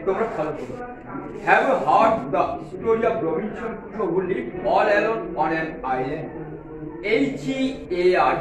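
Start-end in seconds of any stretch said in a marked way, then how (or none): 1.4-6.3 very slow, deliberate classroom read-aloud; slow model reading. Acted. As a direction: read it slowly so students can follow each word. Teacher reading English text aloud.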